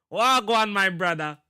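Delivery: put-on Jamaican greeting; mock Jamaican accent. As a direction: greet like a Jamaican, falling away at the end. Playing on the name Jamaica.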